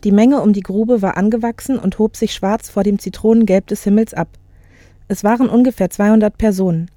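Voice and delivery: measured audiobook reading; composed literary narrator; story narration. A narrator's reading. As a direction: tell it clearly, phrase by phrase. Reads novel excerpt aloud.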